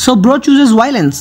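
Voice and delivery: slow, weighty meme delivery; slow dramatic. Acted. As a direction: drop it slowly like a meme.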